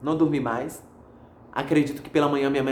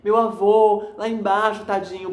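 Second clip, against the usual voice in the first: higher, pleading voice of grief; a touch of a sob in a raised voice; retold tearful plea; 3 semitones higher, slower than usual. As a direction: relive crying over grandpa to mom on the phone. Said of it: "eu comecei a chorar com minha mãe".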